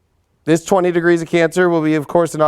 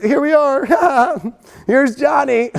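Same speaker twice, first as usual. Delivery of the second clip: Here's Johnny menace; 7 semitones higher than usual. Retold or imitated. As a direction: lean into the Shining line. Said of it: "this lunar eclipse is gonna be like".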